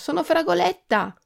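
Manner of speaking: high, small character voice; Fragoletta's little voice. A narrator's reading. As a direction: introduce yourself in a tiny voice. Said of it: "continuò la vocina".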